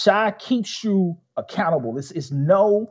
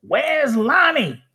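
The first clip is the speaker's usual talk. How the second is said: higher, slow puzzled call; coach asking; 9 semitones higher, slower than usual. Retold or imitated. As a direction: ask for the missing player slowly, like a coach. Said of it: "my coach was like".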